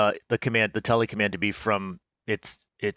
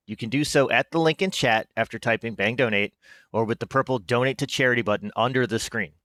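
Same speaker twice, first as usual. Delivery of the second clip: lightly formal announcer read. Pretend. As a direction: read it like an official stream announcement. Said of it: "my announcer voice".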